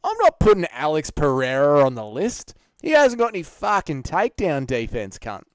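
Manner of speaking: exaggerated Australian accent; broad Aussie rant with stretched vowels; Aussie impression. Shown as a demonstration. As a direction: lay the Australian accent on thick. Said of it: "start off every Aussie impression".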